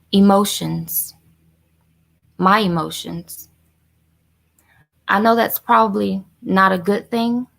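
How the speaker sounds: slow, halting monologue with long pauses; measured confession, letting each phrase sit; dramatic monologue. Acted. First-time caller auditioning with a confession monologue, slow and deliberate.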